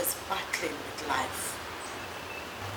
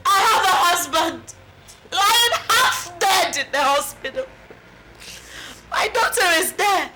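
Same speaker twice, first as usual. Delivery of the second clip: tearful lament. Acted. Mother laments family's troubles.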